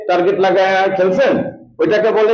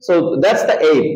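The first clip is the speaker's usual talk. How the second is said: slow, careful English; slow model phrase; 4 semitones lower, much slower than usual. Shown as a demonstration. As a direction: say it slowly for the class. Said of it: "teacher models slow English".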